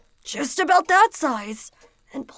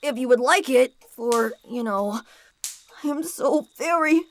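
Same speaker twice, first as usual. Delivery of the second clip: lightly voiced boy, excited then apologetic; a boy bringing a gift, sorry; eager boy; 4 semitones higher than usual. Visitor boy's dialogue.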